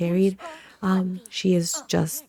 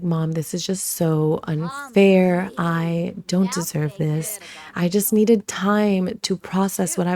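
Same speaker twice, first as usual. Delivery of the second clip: put-on whiny teen; slower than usual. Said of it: "have her whine".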